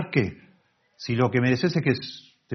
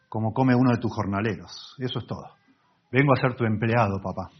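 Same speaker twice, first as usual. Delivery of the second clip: prodigal son; 3 semitones higher, 4 dB louder than usual. Acted. Prodigal son returning to his father, louder humble plea. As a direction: beg your father humbly and earnestly. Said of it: "Por eso el hijo pródigo".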